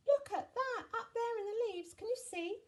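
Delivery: put-on very high, urgent child voice; high-pitched childish yell; yelling children. A narrator's reading. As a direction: call out for help like an alarmed child. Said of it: "and they yelled".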